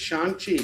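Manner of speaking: "Shang-Chi" as SHAHN-chee, with an open "ah"; correct pronunciation. Shown as a demonstration. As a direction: say "Shang-Chi" carefully, as a reminder. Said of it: "say it the right way".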